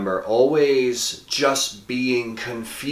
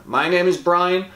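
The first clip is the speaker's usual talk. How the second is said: higher, punchy show outro; channel sign-off; 6 semitones higher than usual. Acted. Host closing the video with a tagline to viewers, punchy sign-off. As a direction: deliver a rehearsed, emphatic sign-off.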